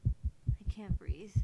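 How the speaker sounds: slow, whispered struggle for air; breathless panic. Acted. Narrator overcome by dread, slow breathless whisper.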